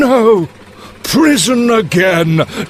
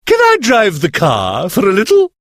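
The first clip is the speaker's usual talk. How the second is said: high, fast and eager; eager Toad; 11 semitones higher, 3 dB louder, faster than usual. Acted. Toad begs the driver to let him drive, fast and eager. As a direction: blurt the request out quickly, excited. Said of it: "says Toad".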